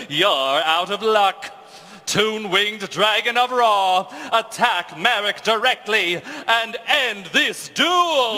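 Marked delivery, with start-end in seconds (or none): 2.1-8.4 battle command. Acted. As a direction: call the finishing blow. Ordering final attack.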